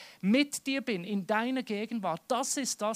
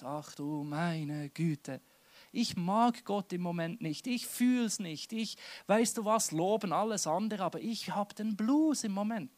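reluctant, downcast worshipper. Acted. The other churchgoer who cannot praise now, mildly downcast. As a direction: drag out the opening wearily. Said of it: "Und der andere denkt".

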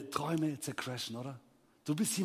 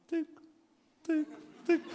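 imitated keyboard ticks; 11 semitones higher, 4 dB quieter than usual. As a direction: tick out each key separately. Imitates the clerk slowly typing. (langsames Tipp-Geräusch)

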